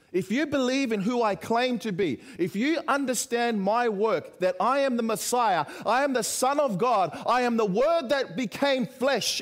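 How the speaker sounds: emphatic, rising claim on each phrase; building declaration. Acted. Preacher speaking as Jesus claiming to be Messiah, building declaration.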